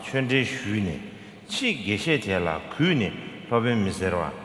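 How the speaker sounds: reading a sacred text aloud with big rises and falls in pitch; scripture recitation. Acted. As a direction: recite the verse in swooping phrases. Reads the root text aloud.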